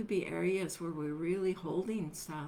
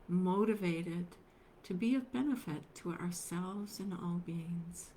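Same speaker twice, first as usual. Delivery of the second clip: unhurried meditation guidance with long pauses; guided meditation; 2 semitones higher, 4 dB quieter than usual. Acted. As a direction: gently guide them into stillness, leaving space between phrases.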